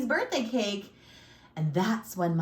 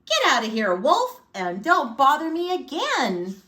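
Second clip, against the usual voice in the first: loud, higher, rude dismissal; rude pig; 4 semitones higher, 6 dB louder than usual. A narrator's reading. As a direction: shout the wolf off rudely. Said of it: "that rude little porker said".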